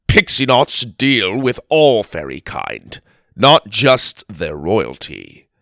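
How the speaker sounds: firm, slow correction; stern. Acted. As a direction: lay down the rule. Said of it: "scolded Theodore".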